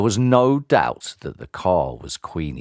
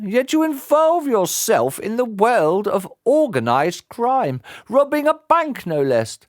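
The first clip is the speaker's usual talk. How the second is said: put-on stern old judge; 8 semitones higher than usual. Old judge scolding the guilty father, stern and high. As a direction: scold from the bench.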